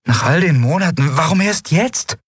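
high-pitched muttered question; Endriel's voice, high. Acted. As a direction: mutter it, voice climbing. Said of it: "murmelte Endriel".

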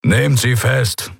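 a lightly voiced captain's command; captain ordering the arrest; curt command. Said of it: "befahl der Anführer der Gardisten".

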